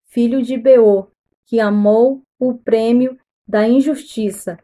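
deliberate Bible reading in measured phrases; careful, evenly paced read-aloud; scripture reading. Acted. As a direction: read the passage out formally, pausing between clauses.

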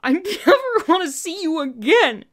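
loud, high, choking on tears; loud tearful choke on never; choked through tears. Acted. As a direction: spit it out through crying. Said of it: "you choked at him".

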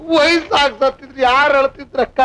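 crying. Acted. Tenant weeps to the landlady over his sister. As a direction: ask it through tears. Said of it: "ಅಳ್ಬೇಡ ತಮ್ಮ".

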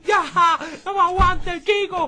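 very loud, high screaming rage; furious struggling. Acted. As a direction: yell as if fighting off whoever holds you. Forcejea para que lo suelten. (gritos furiosos, forcejeando)

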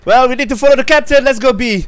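loud, high and fast mock order; sarcastic. Real, not acted. Mocking teammate's order.

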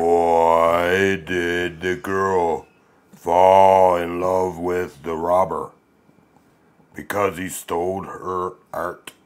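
extremely deep bass voice. Shown as a demonstration. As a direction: drop it as deep as you can.

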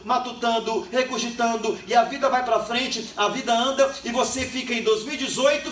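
preacher exhorting the congregation, building; preaching. Acted. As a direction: drive the lesson home to the church.

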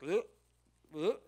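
mild mock retch; imitated gagging. People at the opened tomb, imitated gagging. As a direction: make a small gagging noise.

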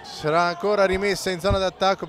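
breathless italian goal commentary. Real, not acted. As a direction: call the score with rising excitement. Live play-by-play, score update.

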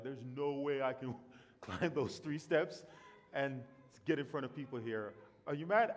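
laughing, horrified at the idea; mock panicked refusal. Imagining being asked to read scripture, panicked.

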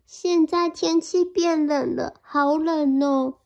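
小老鼠发抖着说; shivering mouse. Acted. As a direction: shiver the words out as the small mouse. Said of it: "它发抖着讲".

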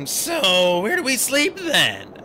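worried. A narrator's reading. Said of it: "He sounded worried".

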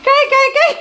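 high, loud startled what-what-what; startled laugh. Real, not acted. Woman startled as her dog suddenly pushes her, laughing. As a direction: caught off guard, half laughing.

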